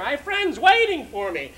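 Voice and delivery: exasperated son cutting in; exasperated plea. Acted. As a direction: lean hard on the excuse, losing patience. Repeats plea, now more exasperated.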